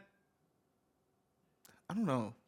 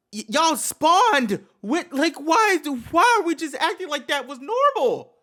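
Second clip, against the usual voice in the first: indignant outburst; 5 semitones higher, 3 dB louder than usual. Real, not acted. Indignant rant at the parents.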